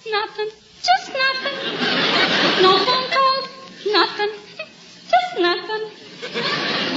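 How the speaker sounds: wailing, high-pitched lovelorn complaint; melodramatic lament. Acted. Sylvie tells the doctor her woes, hammed-up wail. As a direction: pour out the heartbreak, overdone.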